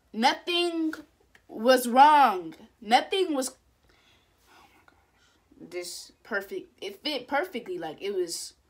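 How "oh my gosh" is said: breathed out slowly in a whisper; awed whisper. Real, not acted. Stunned by the video, a slow awed whisper. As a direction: let it out in awe.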